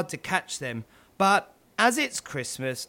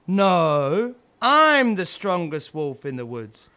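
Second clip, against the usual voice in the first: a different, lightly voiced wolf, louder; rival wolf boasting; 4 dB louder, slower than usual. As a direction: outdo the other wolf's boast.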